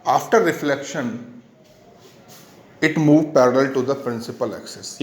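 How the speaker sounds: slow, measured teacher's dictation. Real, not acted. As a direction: read out slowly for note-taking. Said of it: "मैं धीरे धीरे बोलता हूँ".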